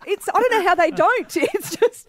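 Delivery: high giddy gushing; gushing squeal. Real, not acted. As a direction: swoon over it, voice way up. Gushing over celebrity close up.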